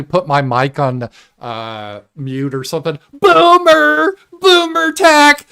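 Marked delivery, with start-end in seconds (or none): 3.2-5.5 high, loud mocking squeal of boomer; shrill taunt at the old guy's tech; mocking boomer jeer. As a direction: squeal it out like a taunting kid, drawn out. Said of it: "everyone should have sounded".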